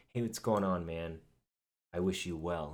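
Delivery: put-on fake-friendly, condescending voice. Imitating a condescending group leader's fake friendliness: imitating Forzu's fake niceness. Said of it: "you know it's fake".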